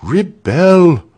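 loud, firm, falling exclamation; firm repeat. A narrator's reading. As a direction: repeat it with resolve, pitch falling at the end. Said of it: "repeated Walter firmly".

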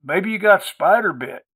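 high-pitched country woman's guess; folksy country woman. A narrator's reading. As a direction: offer a folksy diagnosis in a high voice. Maudie guesses at the cause.

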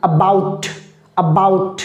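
about with the first vowel barely touched, jumping to "bout"; touch the "a" lightly, land on the second syllable of about; touchy আ. Shown as a demonstration. Teacher demonstrating touchy আ to students, lightly touched first vowel. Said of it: "তার মানে এটা হলো টাচিয়া".

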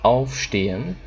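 "aufstehen" drawn out syllable by syllable; clapped syllables. Shown as a demonstration. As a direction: say "aufstehen" slowly in three beats, auf-ste-hen. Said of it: "clap this".

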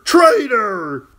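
high, loud clown's shout, slightly falling; mock shout. Jester shouting at the girl, loud and playful. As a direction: yell it again, capering.

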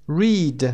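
"Read" with a stretched ee, like reed; long ee. Shown as a demonstration. Teacher showing learners the vowel, "Read" with long ee. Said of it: "ای کشیده".

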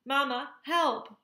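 high, loud, drawn-out plea; cry for help. A narrator's reading. Gosling pulled from the pile, high cry for help. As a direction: cry out slowly for Mama's help. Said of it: "cried Bright Bill".

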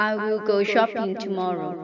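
shopping stressed, whole line very slow; slow model reading. Shown as a demonstration. Teacher reading a model sentence for students to repeat, slowly. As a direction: read it word by word for students. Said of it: "หัดอ่านตามประโยคเหล่านี้".

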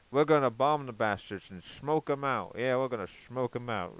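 a barely voiced George Bush, mock tough; half-hearted Texan cowboy president; lightly mocking a gung-ho George Bush; bad George Bush. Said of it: "the worst impersonation of George Bush ever".

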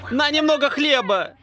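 high, pained pleas for help; begging with a burning mouth; mouth burning from spicy food. Real, not acted. Begging after the hot pepper.

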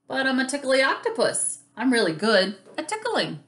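a touch of hurt protest; mildly sad. Acted. Rebuffed Octopus defends his tickling, mildly sad. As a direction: plead it with understated sadness. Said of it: "said Octopus sadly".

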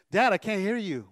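acted son who can't hear; calling back to dad. Son straining to hear whispering dad.

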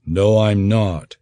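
slow, cold and even denial; a touch of icy calm, said slowly; understated cold reply; coldly. Acted. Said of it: "Garin said coldly".

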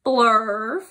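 loud nonsense word; one big punched word. Acted. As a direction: blurt it like oversized print. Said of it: "Did you hear my voice when I read those big words?".

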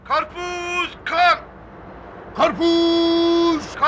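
vendor call. Acted. Street vendor calling out wares.

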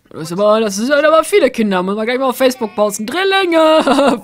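loud, excited exclaim. Real, not acted. Streamer loudly excited at the crowd of kids.

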